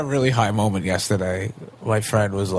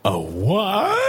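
high, stiff, badly acted; wooden actor; 8 semitones higher than usual. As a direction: deliver it like a terrible extra. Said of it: "the guy goes".

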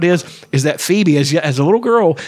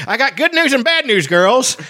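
talking around a cigarette, high-pitched; cigarette in mouth; 10 semitones higher than usual. Retold or imitated. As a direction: lips clamped on an imagined cigarette. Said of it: "so he's talking like this".

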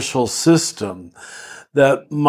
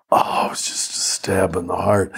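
pained whisper; 5 semitones lower, 4 dB quieter than usual. Real, not acted. Painful memory of being judged.

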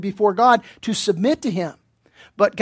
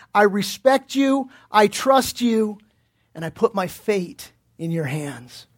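humble and submissive. Retold or imitated. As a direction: lay it down gently, like handing over your trust. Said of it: "in a very humble and a submissive way".

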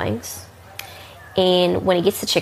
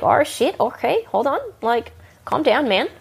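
higher-pitched, retold placating of a customer; raised pitch, unchanged volume, trying to settle someone down; 6 semitones higher than usual. Bartender soothing an angry customer in retelling, placating.

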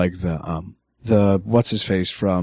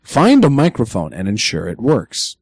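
automated-announcer style guideline read; measured announcer delivery with swooping emphasis. Shown as a demonstration. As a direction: read the rules like an official recorded announcement. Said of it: "I'm using my announcer voice".

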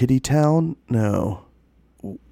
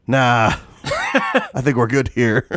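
lazy dog voice; much slower than usual. Retold or imitated. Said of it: "been like".

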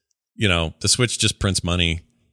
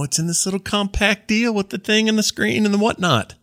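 mock hype voice; 11 semitones higher than usual. Mimicking Valve's hype pitch.

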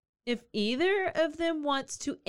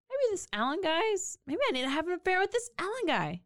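high-pitched, hammed-up excited outburst; screaming at the mic; 7 semitones higher, faster than usual. Woman deciding on an affair with Alan, mock screaming. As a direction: squeal it out as a giddy realization. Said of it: "Am I screaming at the mic?".

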